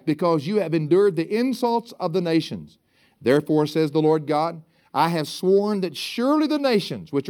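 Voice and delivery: measured, declaimed Bible reading; scripture reading. Acted. Preacher reads God's oath to the congregation, declaimed scripture reading. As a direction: proclaim the verse to the congregation.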